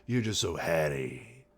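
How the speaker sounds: a hint of mock Capitol accent; silly Capitol accent. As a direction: try a silly Capitol accent at normal pitch. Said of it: "in her silly capital accent".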